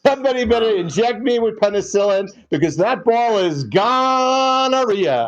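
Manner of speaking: mock home run call with a long gonorrhea; imitating announcer call. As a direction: stretch out gonorrhea like a ballpark call. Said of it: "the gonorrhea one is the best".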